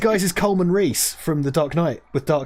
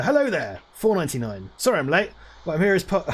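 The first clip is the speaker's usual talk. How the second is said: Alan Partridge voice; 3 semitones higher than usual. Retold or imitated. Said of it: "Partridge Voice".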